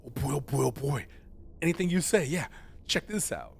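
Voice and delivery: a touch of an eager dog; lightly voiced eager dog. Dog agreeing to show a trick, eager. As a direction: play a dog keen to please, lightly. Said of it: "A dog would go".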